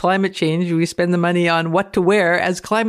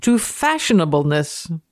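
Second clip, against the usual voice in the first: dramatic reading. Acted.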